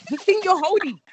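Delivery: put-on exasperated giggle at the kid; laughing insistence. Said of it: "I was like".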